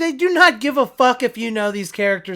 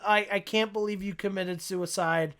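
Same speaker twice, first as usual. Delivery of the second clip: emotionless delivery; 7 dB quieter than usual. Retold or imitated. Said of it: "how emotionlessly he's like".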